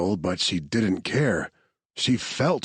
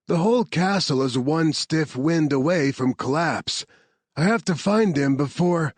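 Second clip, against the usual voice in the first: lightly voiced soldier, a bit higher; Marcus urgent; 6 semitones higher than usual. Soldier warning the team about the collapsing castle, lightly voiced. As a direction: hurry them out before collapse.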